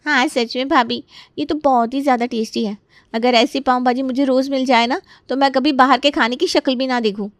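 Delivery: lightly voiced admiring youngster; a hint of eager praise; delighted young in-law. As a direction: gush over the food.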